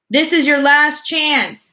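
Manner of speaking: high, loud, slow ultimatum; booming warning. A narrator's reading. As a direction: lay down the final warning. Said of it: "boomed the voice".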